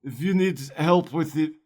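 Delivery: lightly voiced gruff dwarf, chewy vowels; a hint of a dwarf talking through caramel; Gimli caramel accent. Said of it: "you sound like, um, like Gimli if he ate, like, a bunch of caramel".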